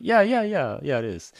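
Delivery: quick high yeahs, settling down; eager yes. Retold or imitated. Visitor answers the receptionist's question, eager and high. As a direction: blurt eager agreement, starting high.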